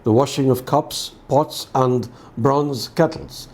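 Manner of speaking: measured, solemn Gospel reading; formal liturgical reading; scripture reading. Acted. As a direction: read the Gospel aloud to a congregation, evenly. Reads the Gospel aloud.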